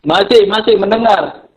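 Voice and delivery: glitchy robotic connection; robot voice over a bad line. Real, not acted. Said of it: "suaranya seperti peme-, apa, robot gitu loh".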